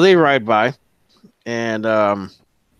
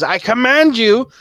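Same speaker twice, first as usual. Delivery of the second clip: higher, louder, slow drawn-out command; retold command; 11 semitones higher, 6 dB louder than usual. GM retells the rider's command as the arrow strikes, drawn out. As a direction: stretch it out as he's hit. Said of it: "right when he says".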